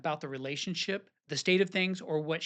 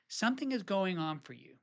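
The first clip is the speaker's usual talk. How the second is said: gentle invitation. Shown as a demonstration.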